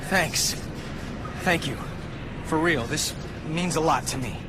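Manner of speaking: heartfelt thanks. Acted. Relieved thanks after rescue.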